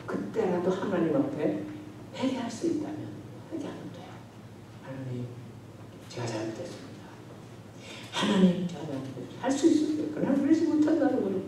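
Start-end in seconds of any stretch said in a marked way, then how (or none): 4.8-9.4 low, hushed prayer of repentance; quiet confession. Acted. Cain owning up to God, quiet repentant confession.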